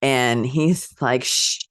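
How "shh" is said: high, whiny shushing shout; hammed-up, badly imitated cartoonish man-child; Pee-wee. Hushing a loud biker bar from the phone, mock whiny shout. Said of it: "sorry, my Pee-wee".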